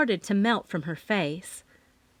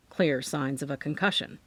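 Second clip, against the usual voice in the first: calm doctor; 7 semitones lower than usual. A narrator's reading. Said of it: "in a calm voice".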